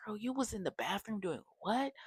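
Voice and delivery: high, incredulous questioning of a friend; retold disbelief.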